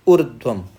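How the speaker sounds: ऊर्ध्वम said loud and firm, the र्ध्व cluster joined; firm correct version. Shown as a demonstration. Teacher states the right ऊर्ध्वम to the class, loud and firm. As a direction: land ऊर्ध्वम clearly and loudly, as one word. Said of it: "अच्छा, ऊर्ध्वम है".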